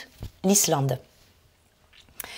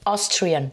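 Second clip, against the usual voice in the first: Austrian with AUS emphasised; stress on first syllable. Shown as a demonstration. Teacher modelling the nationality, stress on AUS in Austrian. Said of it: "première syllabe aussi".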